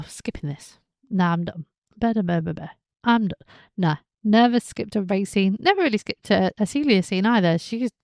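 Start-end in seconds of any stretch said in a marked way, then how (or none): 0.0-3.5 bored dismissive. Retold or imitated. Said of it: "villains that I go".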